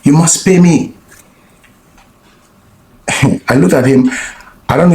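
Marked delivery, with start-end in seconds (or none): 0.1-0.9 higher mock demand; hammed-up accusation from the stranger; mimicking the angry man. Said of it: "he scratched my car".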